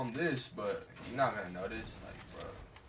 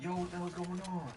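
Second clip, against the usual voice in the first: retold challenge; 7 semitones higher than usual. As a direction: imitate calling out on walking up. Retells walking up to confrontation.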